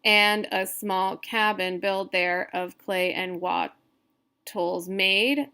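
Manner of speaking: slow, measured verse reading; deliberate, evenly spaced recitation; scansion reading aloud. Shown as a demonstration. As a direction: count out every syllable as you read. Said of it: "talking out loud when you're doing scansion".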